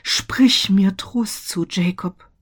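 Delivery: loud, high begging, sinking to a whisper; pleading. A narrator's reading. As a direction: implore him desperately. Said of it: "flehte er".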